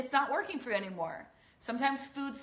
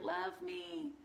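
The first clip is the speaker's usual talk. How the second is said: put-on higher, pleading child's voice; a little girl begging to be loved; inner little girl; 8 semitones higher, 3 dB quieter, slower than usual. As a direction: plead like a small girl who wants to be heard. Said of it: "Your little girl all up in here is like".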